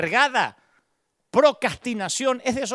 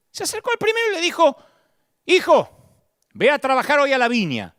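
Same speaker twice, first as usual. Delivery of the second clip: raised storytelling voice; 6 semitones higher, 5 dB louder, faster than usual. Acted. Narrating the father in parable.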